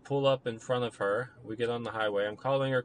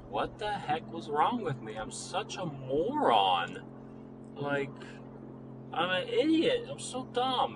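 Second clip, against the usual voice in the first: higher, exasperated self-scolding; 5 semitones higher than usual. Retold or imitated. Rereading old texts, he scolds himself, exasperated and higher. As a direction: berate yourself in a raised, fed-up voice.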